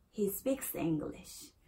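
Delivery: "speaks" slowly, keeping the final S audible; measured model sentence, sounding the S that ends "speaks"; clear final S. Shown as a demonstration. Teacher models third person, "speaks" with clear final S. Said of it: "esa es al final".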